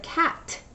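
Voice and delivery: cat with the final t stressed; isolated sound. Shown as a demonstration. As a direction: say cat and lean on the t. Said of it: "At the end of the first word".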